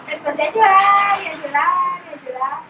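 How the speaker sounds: long held vowels, tapering off. Retold or imitated. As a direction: stretch each repeat, starting loud and fading. Retelling her breakdown into tears.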